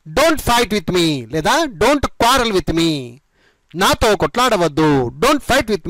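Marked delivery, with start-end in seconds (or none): 0.1-2.9 slow model. Shown as a demonstration. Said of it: "ఈ విధంగా చెప్పండి".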